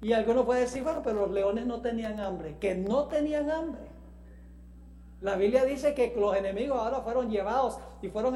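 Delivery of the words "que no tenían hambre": higher-pitched, disbelieving echo; incredulous echo. Acted. Preacher answering a doubter about the lions, incredulous echo. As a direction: throw it back, raised in mock disbelief.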